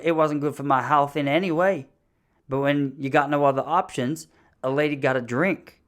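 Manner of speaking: lightly voiced American woman; a hint of put-on redneck wife; North Dakota wife. Wife excusing her drinking, lightly imitated. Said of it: "she's from North Dakota".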